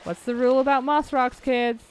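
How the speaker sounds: lightly put-on teacher quizzing kids; mock teacher. Streamer lecturing kids on moss rocks, mock teacher.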